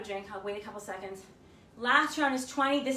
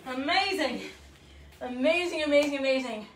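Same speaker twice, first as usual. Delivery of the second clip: excited praise; 2 semitones higher, 5 dB louder than usual. Real, not acted. Praising class after final set.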